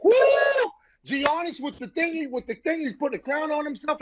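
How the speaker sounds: hyped, high-pitched recap; excited. Real, not acted. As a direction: gush about the highlight, pitch up.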